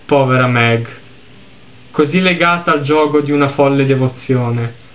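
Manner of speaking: lettura misurata di un racconto triste; narrazione letta. A narrator's reading. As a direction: leggi la storia con tono composto. Legge ad alta voce il testo del gioco. (narrazione composta, da racconto)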